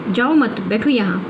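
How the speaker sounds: "जाओ मत" as one phrase, then "बैठो यहाँ"; group मत with जाओ, break before बैठो; pause after मत. Shown as a demonstration. Teacher shows what the speaker said, pausing after मत. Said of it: "जाओ के बाद में मैंने कॉमा रुक गई".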